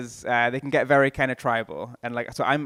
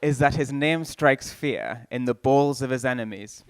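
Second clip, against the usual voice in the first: North Korean comedian. Pretend. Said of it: "Here's my impression of a comedian doing political comedy in North Korea".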